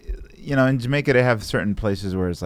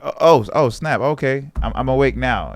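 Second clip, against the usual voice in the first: mock startled; 5 semitones higher, 4 dB louder than usual. Acts being jolted awake.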